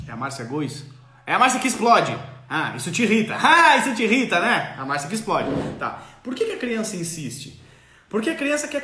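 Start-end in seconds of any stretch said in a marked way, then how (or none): 3.4-4.7 louder, laughing through the words; amused, chuckle it out. Real, not acted. Repeating viewer Márcia's complaint, laughing.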